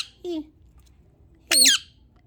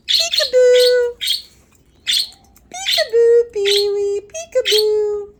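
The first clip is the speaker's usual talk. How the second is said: playful peekaboo; 3 semitones higher, 6 dB louder than usual. Real, not acted. Playing peekaboo with bird.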